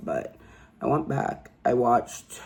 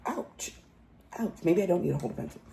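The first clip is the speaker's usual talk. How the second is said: mocking whine; 3 semitones higher, 6 dB quieter, faster than usual. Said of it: "And she's like this".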